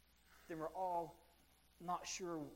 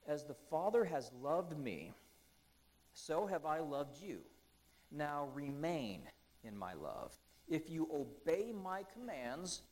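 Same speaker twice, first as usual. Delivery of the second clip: solemn Bible reading; scripture reading. Acted. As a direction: read the words as sacred text. Reads scripture slowly.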